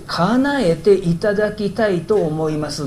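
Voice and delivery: slow, measured talking-down request; condescending. Shown as a demonstration. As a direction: state it slowly, as someone in charge. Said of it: "上から目線の言い方ですよ".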